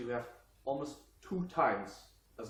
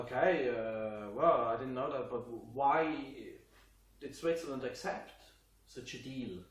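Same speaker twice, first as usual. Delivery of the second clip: lightly voiced doubting viewer, a touch louder; puzzled viewer voice; 3 dB louder than usual. Swiss vlogger voicing a doubting British viewer, lightly puzzled. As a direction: play the surprised listener asking why. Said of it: "and you wonder".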